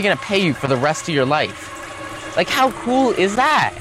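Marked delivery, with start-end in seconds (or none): 2.4-3.7 excited. Real, not acted. Enthusing about passive crypto income.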